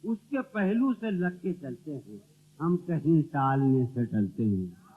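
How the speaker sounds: measured mushaira recital, each line set apart; ghazal recitation. Acted. Poet reciting a couplet to the gathering, ghazal recitation. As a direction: recite verse for an audience.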